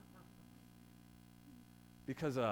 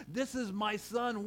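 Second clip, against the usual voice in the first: voice of God; 5 semitones higher, slower than usual. Retold or imitated. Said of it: "what did he say".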